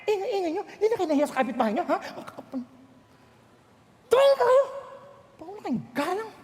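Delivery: mock scolding of noisy kids; scolding parent. Parent scolding noisy children, mock stern. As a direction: scold the children for their noise, half-acted. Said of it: "Yan ang style ko noon".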